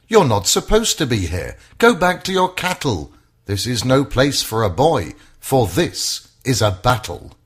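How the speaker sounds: mildly voiced brother telling a boy off; scolding older brother. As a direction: shoo the little brother home. Brother scolds David away.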